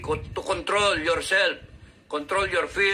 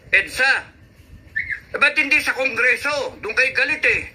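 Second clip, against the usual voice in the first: heated questioning; 5 semitones higher than usual. Real, not acted. Challenging the crowd about EDSA, heated. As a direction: fire the questions back at them. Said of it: "galit na galit ako".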